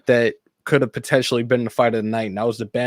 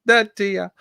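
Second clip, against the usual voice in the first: high joking voice; 9 semitones higher, slower than usual. Acted.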